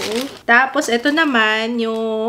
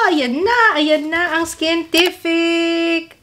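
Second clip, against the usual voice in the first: high, slow, thrilled announcing of the product; excited reveal; 6 semitones higher, much slower than usual. Real, not acted. To viewers, showing off the Skintific cushion, thrilled. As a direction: present it like a prize.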